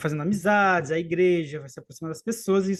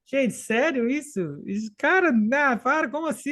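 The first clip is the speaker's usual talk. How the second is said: retold disbelief; 6 semitones higher than usual.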